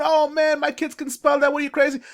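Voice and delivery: high-pitched mock disbelief; mock-incredulous parent, high and dismissive; scoffing parent. Mimics scoffing parents dismissing baby stuff.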